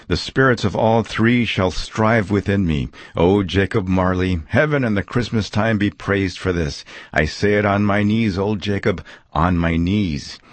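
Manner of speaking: put-on a touch of fervent old Scrooge; lightly voiced Scrooge, thankful and moved; grateful Scrooge.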